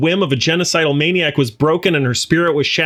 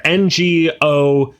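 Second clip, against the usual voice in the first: letters N G O Z I read out slowly; spelling out slowly; 2 semitones lower, much slower than usual. Shown as a demonstration. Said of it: "I got it right here".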